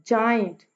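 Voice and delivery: जाइंट with strong जा and a falling finish; trochaic stress. Shown as a demonstration. Teacher gives trochee example, first syllable of जाइंट stressed. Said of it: "पहले वाला syllable stress है".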